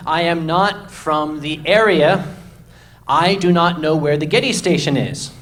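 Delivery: slow, deliberately spelled-out words. Retold or imitated. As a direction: talk slowly as if to someone flustered. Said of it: "I'll speak a little slower".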